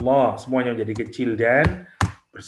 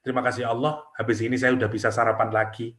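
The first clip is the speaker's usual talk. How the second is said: mock shallow thanks; 2 semitones lower, faster than usual. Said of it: "Paling bersyukurnya".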